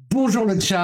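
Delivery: high, sing-song greeting to a pet; cat talk. Real, not acted. Streamer greets his cat as it climbs up, cooing high. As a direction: coo hello up high to the cat.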